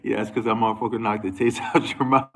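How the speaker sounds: imitated private snicker through the words; laughing under breath. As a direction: let a smug laugh break into the line. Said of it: "I was laughing under my breath".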